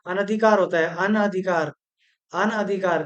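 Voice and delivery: अनधिकार: short a after n, no long naa; correct form. Shown as a demonstration. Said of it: "ये अनाधिकार नहीं होता".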